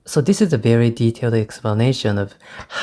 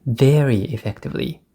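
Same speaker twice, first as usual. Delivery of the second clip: "very" lifted and leaned on; stress on very; 2 semitones higher than usual. Shown as a demonstration. Teacher repeating the phrase, punching "very" for students. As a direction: give "very" the weight in "Very effectively". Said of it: "Do you notice I stress the word very?".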